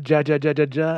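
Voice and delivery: "Ja" said jah with an English j, as a mock laugh; mock laugh with a hard j on each "Ja"; literal English J. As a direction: read "ja" as jah, over and over. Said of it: "Does she laugh?".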